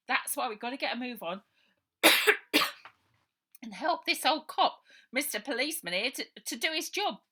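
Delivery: high, loud cheeky push; girl mocking the old cop. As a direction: hurry them up with cheek. Baby bossing along.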